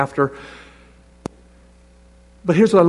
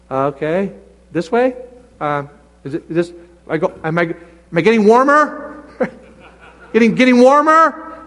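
unsure believer. Pretend. Preacher acting a believer searching for God's way, halting and playful. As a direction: fumble around, playfully unsure.

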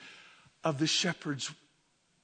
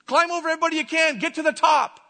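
loud, high, fast rallying call; acted high, forceful exhortation; worldly urging; 9 semitones higher, 6 dB louder, faster than usual. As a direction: urge them on as the pushy world. Voices the world's ambitious urging.

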